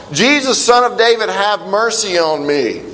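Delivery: a hint of a beggar calling out; retold shout.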